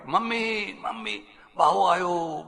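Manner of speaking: put-on high child's call to mother; children announce the freeloader at the door; kids calling mom. Kids calling their mother, high and excited.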